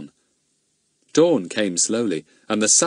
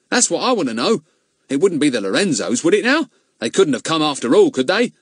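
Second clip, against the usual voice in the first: puzzled policeman; 7 semitones higher, 4 dB louder than usual. Acted. Companion voiced in story.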